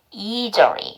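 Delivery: "easily" with long ee and a j-like S; model pronunciation. Shown as a demonstration. Teacher showing learners the finished word, model "easily". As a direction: say "easily" as ee-jeo-ri. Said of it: "이렇게 발음 나죠".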